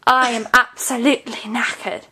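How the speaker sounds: measured British "absolutely knackered" with a breath inside "absolutely". Shown as a demonstration. Teacher says listen, breathy-stressed British absolutely. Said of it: "a breath again in absolutely".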